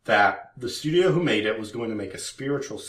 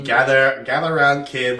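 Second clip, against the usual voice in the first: louder, drawn-out storyteller call; slow wise elder; 2 semitones higher, 6 dB louder than usual. Pretend. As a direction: call the kids in like an old storyteller. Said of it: "Are you gonna do the voices".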